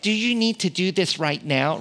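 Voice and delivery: a hint of a doubtful wife asking; wife's voice. Wife questioning husband about fixing sink, lightly voiced. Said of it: "I'm trying to do her voice as good as I can".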